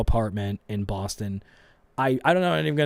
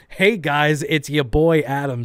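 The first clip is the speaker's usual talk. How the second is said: mock vlogger intro; 3 semitones higher, 5 dB louder, slower than usual. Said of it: "I wish that then Adam".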